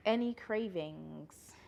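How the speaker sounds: slow, breathy whispered question. Real, not acted. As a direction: whisper it like a secret.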